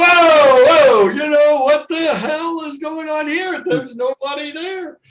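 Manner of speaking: high, loud alarmed cries fading out; frightened yelling. Retold or imitated. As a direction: panic at the car coming over. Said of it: "It's going".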